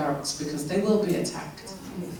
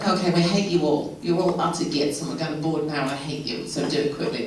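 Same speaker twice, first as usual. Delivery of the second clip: mock grumpy British gate agent. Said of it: "That was a British person".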